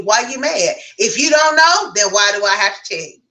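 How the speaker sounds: a touch of mock anger, rising on "If you don't know"; mock angry. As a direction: play the pissed-off partner lightly. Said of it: "it could have been like this".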